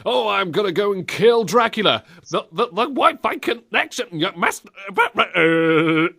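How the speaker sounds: high, stuttering lagging speech; bad internet connection. Imitating a game actor lagging through time, high stuttering glitch. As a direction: glitch and stick on syllables like a dropping call. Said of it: "some sort of really awful internet connection saying".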